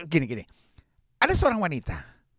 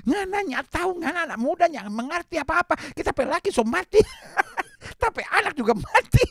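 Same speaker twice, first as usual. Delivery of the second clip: put-on Manado accent; 4 semitones higher than usual. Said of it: "kalau ibu itu orang Manado".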